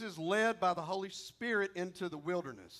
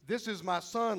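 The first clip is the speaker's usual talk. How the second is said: bold proclamation; 3 semitones higher, 4 dB louder than usual. Pretend. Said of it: "God, he doesn't say".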